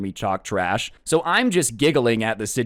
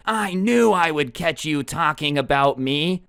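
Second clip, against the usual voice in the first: raised, drawn-out accusing outcry; mock scream; 5 semitones higher than usual. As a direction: imitate an angry customer's slow, higher-pitched yell. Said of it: "the Karen's voice screaming".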